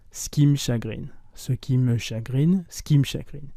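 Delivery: dites « ce qui me chagrine » avec « ce qui » réduit en « skim »; « ce qui me » fondu en « skim », comme l'anglais skim; skim pronunciation. Shown as a demonstration. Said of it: "se prononce exactement comme dans skim". (« ce qui me chagrine » prononcé « skim chagrine »)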